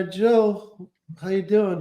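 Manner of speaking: lightly voiced slick manager; Brad Gray impression. Client calling his agent as manager Brad, lightly done. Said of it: "as Brad Gray".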